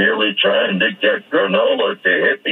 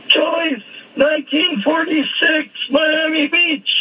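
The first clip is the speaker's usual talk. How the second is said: lightly voiced spaced-out hippie, pitched higher, slow at the end; dazed tripping guy. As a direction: drift off like a kid lost mid-trip, a bit higher. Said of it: "he's going".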